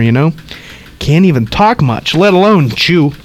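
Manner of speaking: put-on gossipy old woman rattling on; old lady voice. Reads old lady's lines.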